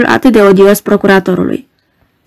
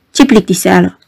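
grumbling; 3 semitones lower than usual. Acted. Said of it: "bombăni roșcatul".

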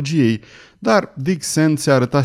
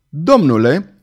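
stiff, offended address, louder; piqued; 4 semitones higher, 5 dB louder, slower than usual. Acted. Benedict to Captain Hull, piqued and louder. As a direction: bristle as you say it. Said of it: "răspunse înțepat vărul Benedict".

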